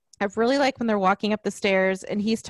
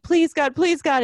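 higher-pitched mock plea; quick, raised imploring quote; retold pleading; 6 semitones higher, 4 dB louder than usual. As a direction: imitate someone begging in terror, lightly.

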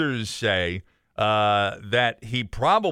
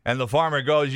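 ordinary talk

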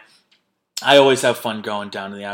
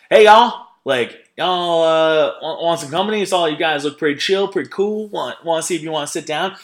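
imitating a North Carolina redneck, high and loud at first; hammed-up Southern country accent, friendly and pushy; 5 semitones higher, 5 dB louder than usual. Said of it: "North Carolina redneck comes up to us and is like".

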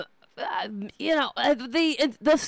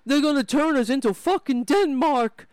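mock pundit. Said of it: "He's like".

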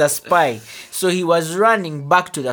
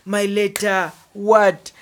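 raised, playful horrified gasp of words; mock dismay; 4 semitones higher, slower than usual. Pupil hears teacher reading their love letter, mock dismay. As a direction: act out an embarrassed pupil's panic.

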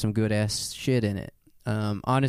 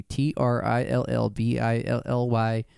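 spelling it out. Real, not acted. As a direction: spell each letter out deliberately. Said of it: "just spell it out".

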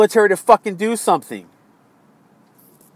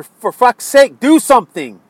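raised voice, angry plea; exasperated demand; 2 semitones higher, 5 dB louder than usual. Real, not acted. Frustrated voter urging the president to act, exasperated. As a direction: push it out in frustration.

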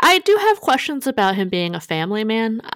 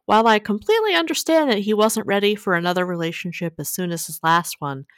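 lively opening, settling into measured read-aloud phrasing; letter reading. A narrator's reading. Host reading a dating dilemma to co-host, letter-reading voice.

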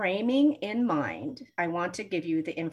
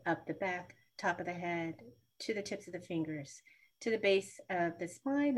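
grounding meditation. Shown as a demonstration. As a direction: guide them calmly into grounding. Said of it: "simple grounding meditation".

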